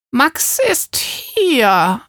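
very slow stretched reply; drawn out. A narrator's reading. Neighbour answers the father, slow stretched-out reply. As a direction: stretch every word out slowly. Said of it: "antwortet Frau Kartuschke gedehnt".

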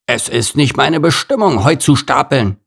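sulky gorilla complaining; grumbling gorilla. Acted. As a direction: moan like a fed-up big ape. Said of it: "maulte er".

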